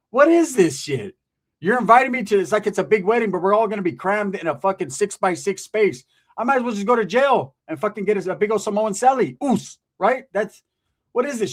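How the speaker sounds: a hammed-up outraged guest; indignant rant. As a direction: rant at the cramped wedding in a put-on voice. Indignant retort in story.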